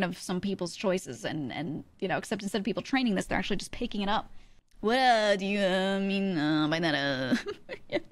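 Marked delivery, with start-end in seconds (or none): 4.8-8.0 lightly mocking streamer Valorant accent, an uh after every word; teasing imitation of gamer streamer speech. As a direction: parody the streamer accent, ending slow and laughing. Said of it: "The streamer Valorant accent".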